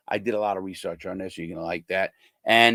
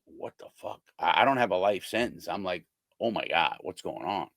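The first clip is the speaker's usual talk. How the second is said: shocked whisper; 4 semitones lower, 5 dB quieter than usual. Retold or imitated. Frightened cellmate watching silently.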